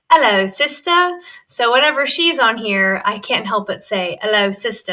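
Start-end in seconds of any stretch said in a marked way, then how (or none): 0.1-1.2 imitated British cartoon accent; Peppa Pig. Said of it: "Peppa Pig says". 4.2-4.9 lightly imitated British cartoon accent; Peppa Pig. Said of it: "I start off with an accent".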